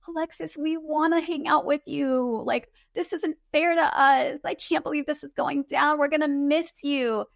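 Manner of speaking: a hint of pleading niceness; sweet, kind co-stars. Co-stars gently pleading with Alexis, lightly voiced and sweet. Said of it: "could not have been nicer to her".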